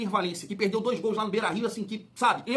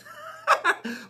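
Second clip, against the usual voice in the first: incredulous laugh. Real, not acted. Laughs at the squad list.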